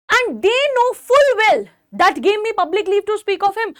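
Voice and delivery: slow, deliberate Shakespeare recitation; teacher reciting Antony's speech slowly. Acted. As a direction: read the verse line slowly to the class. Reads Shakespeare line aloud.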